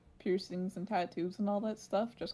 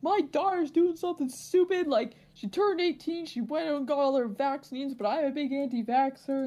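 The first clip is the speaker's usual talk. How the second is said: higher-pitched, mock-indignant mother; pissed off mom; 5 semitones higher than usual. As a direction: imitate an annoyed mom complaining. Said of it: "pissed off".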